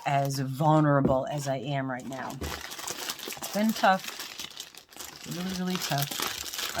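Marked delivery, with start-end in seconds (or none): 2.4-6.8 mock lament. Mock lament about vulnerability.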